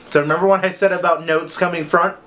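normal talking voice

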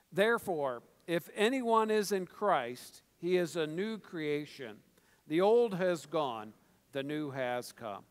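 slow, measured verse reading; deliberate, drawn-out reading aloud; scripture read in unison. Acted. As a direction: lead a congregation through the verse, phrase by phrase. Reads a verse with congregation.

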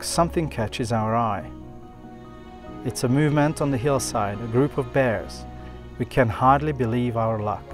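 calm documentary voiceover; nature documentary. A narrator's reading. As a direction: narrate the wildlife scene calmly. Narrated voiceover over music.

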